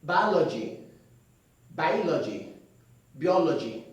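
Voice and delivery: "biology" said as ba-lo-ji and bi-o-lo-ji, wrong; "biology" repeated wrongly. Shown as a demonstration. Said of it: "We don't have any word like that".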